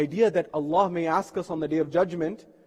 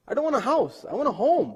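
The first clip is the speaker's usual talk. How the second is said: higher, emphatic restating; insistent repeat; 7 semitones higher than usual. Retold or imitated. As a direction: press the point home in a raised voice.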